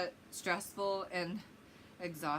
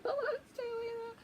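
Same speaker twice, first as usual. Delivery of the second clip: laughing. Retold or imitated. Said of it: "I'm like".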